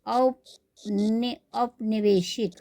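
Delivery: औपनि very slow, then औपनिवेशिक whole; slow syllables. Shown as a demonstration. Teacher builds up औपनिवेशिक slowly, stressing औ. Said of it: "उ के स्थान पर औ".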